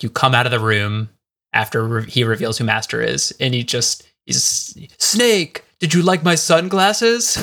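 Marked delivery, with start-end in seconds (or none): 5.0-7.4 higher, drawn-out villain voice; mock-dramatic villain, pitched up; Liquid Snake. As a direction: play the villain's big reveal, slow on the question. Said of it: "interaction with Liquid Snake".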